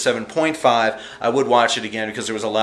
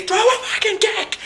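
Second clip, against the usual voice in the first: shout at the TV. Retold or imitated. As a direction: yell it at the screen, half laughing. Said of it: "screaming at the T V".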